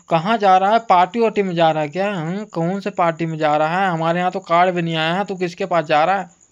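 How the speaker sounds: firm, rapid-fire string of questions; suspicious questioning. Retold or imitated. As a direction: imitate nosy family grilling. घर वालों की पूछताछ. (शक भरी पूछताछ)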